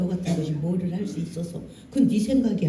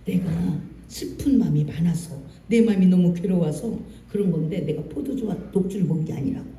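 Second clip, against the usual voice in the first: calm gentle explanation; 2 semitones lower, 4 dB quieter than usual. Retold or imitated. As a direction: explain softly so he calms down. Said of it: "한나가 조곤조곤".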